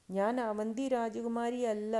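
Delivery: high, loud, slow acted wail; tearful outburst. A narrator's reading. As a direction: protest with a touch of weeping. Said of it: "പൊട്ടിക്കരഞ്ഞുകൊണ്ട് പറഞ്ഞു". (പൊട്ടിക്കരച്ചിലിന്റെ ഭാവത്തിൽ)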